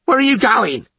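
high, loud challenge; angry bellow. A narrator's reading. Fish challenging skipper's course, high angry bellow. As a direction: bellow it from the bow. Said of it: "Fish bellowed".

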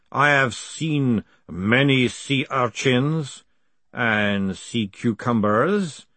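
slow, ancient, measured speech; slow golem voice. Acted. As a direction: speak like a patient ancient golem. Ancient golem speaks slowly.

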